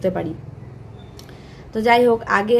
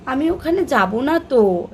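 put-on a little higher and slower, like a toddler; daughter's way; 4 semitones higher, slower than usual. Mother imitating her toddler refusing to go, higher and slower. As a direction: mimic the little one's pouty refusal. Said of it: "ও কীভাবে বলবে".

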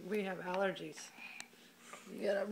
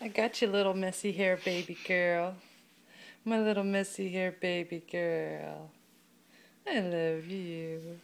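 tender cooing; 3 semitones lower than usual. Real, not acted. Mother cuddling little girl.

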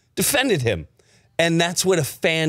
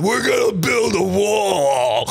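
Trump rally voice; 3 semitones higher, slower than usual. Retold or imitated.

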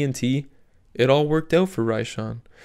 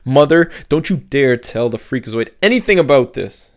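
angry; 2 semitones higher, 6 dB louder than usual. Acted. Teen storms off in anger.

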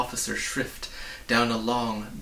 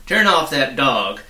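stern officer ordering the dog silenced; loud order; 3 semitones higher, 10 dB louder than usual. Acted. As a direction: bark the order. Policeman orders Tock.

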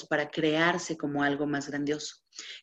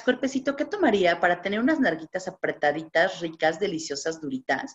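sweet coaxing. Retold or imitated. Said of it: "¿qué tal si le preguntaras".

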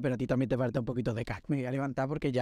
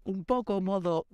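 a singer's dramatic slide; 4 semitones higher, slower than usual. Retold or imitated. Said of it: "Demi Lovato en Camp Rock".

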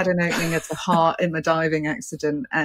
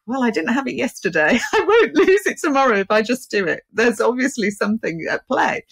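laughing; 5 semitones higher, 4 dB louder than usual. Retold or imitated. Retold own decision.

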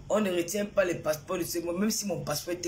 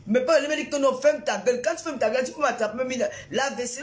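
angry; 3 semitones higher than usual. Real, not acted. Streamer repeating a viewer's insult, real anger. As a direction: throw back their insult in anger. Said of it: "elle est en colère aujourd'hui".

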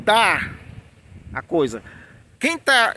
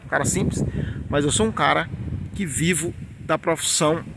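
ordinary talk

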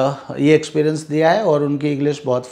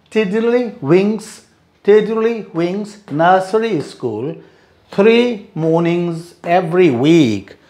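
slow model read; 2 semitones higher, slower than usual. Shown as a demonstration. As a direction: spell out "Tiddly Wings" like a teacher. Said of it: "Tiddly Wings drill".

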